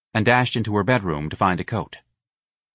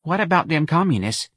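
hesitant; 8 semitones higher than usual. A narrator's reading. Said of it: "she asked a little hesitantly".

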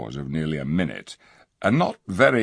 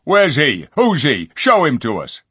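jeering dwarfs; 8 semitones higher, 7 dB louder than usual. A narrator's reading. Dwarfs jeer.

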